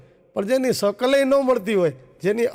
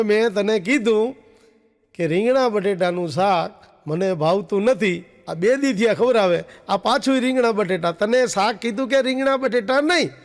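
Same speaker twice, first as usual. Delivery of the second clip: louder, a husband's raised scolding voice; mock scolding; 3 dB louder than usual. Husband scolding his new wife over brinjal curry, mock angry. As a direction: scold her for the same dish. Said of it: "ઓમ ખીજાવવું પડે".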